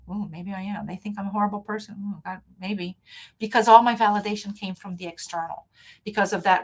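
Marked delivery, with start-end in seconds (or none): 0.1-3.0 soft, small voice of a person who believes the insult; mildly deflated, muttering to herself; meek doubting. Retold or imitated. Her old self answering an insult, softly defeated. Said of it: "And I'd be like".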